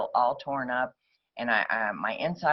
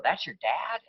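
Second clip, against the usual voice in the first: higher-pitched imitated disbelief; mock surprise on a raised pitch; incredulous question; 5 semitones higher than usual. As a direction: play a puzzled friend, rising at the end. Surprised girls question her in car.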